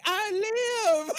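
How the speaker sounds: high, strained undead voice; zombie rising. Pretend. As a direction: croak it like a risen corpse. Undead member rises from crypt.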